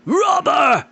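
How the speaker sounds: high furious yell; angry cry. Acted. Lord accusing his rival, a furious high yell. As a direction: hurl the insult at him. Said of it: "cried Gast".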